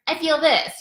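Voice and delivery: high-pitched mock inner voice; other inner voices. Coach contrasting other voices with the rational, high mock voice. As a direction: pitch it up like a pushy little voice. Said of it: "the other voices are kinda like".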